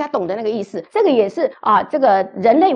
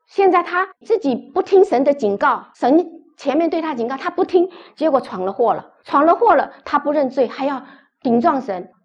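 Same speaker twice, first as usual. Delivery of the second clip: higher and louder preaching push; fervent preaching; 5 semitones higher, 5 dB louder than usual. Real, not acted. Preacher denouncing Cain's defiance, higher and louder. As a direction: drive the rebuke home to the congregation.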